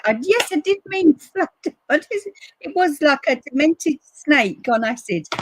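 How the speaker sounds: high, loud laughing retelling. Real, not acted. Telling viewers about the flood, laughing loudly. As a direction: laugh through the disbelief.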